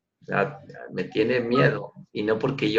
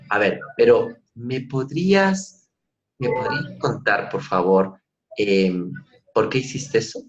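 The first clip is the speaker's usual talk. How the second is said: gentle polite question. Shown as a demonstration. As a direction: ask kindly with por favor. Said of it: "Vamos a hacer la misma pregunta de otro lado". (pregunta amable y suave)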